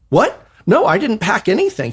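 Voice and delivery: high, squeaky panic; alarmed. Retold or imitated. Writer learning he's stuck for two weeks, high panic. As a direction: blurt it like he's trapped. Retold panic about packing.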